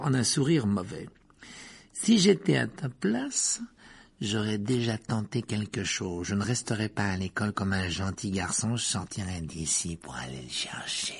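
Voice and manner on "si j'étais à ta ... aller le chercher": scheming taunt. Acted. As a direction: lure him, voice dropping to a whisper. Malfoy goads Harry. (provocation qui s'achève en chuchotement)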